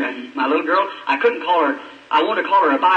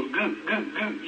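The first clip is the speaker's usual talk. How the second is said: put-on baby babble; 10 dB quieter, much slower than usual. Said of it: "and she'd go".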